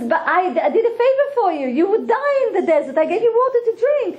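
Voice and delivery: mildly acted outraged objection; indignant protest. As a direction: plead your case with rising pitch. Man protests to threatening snake.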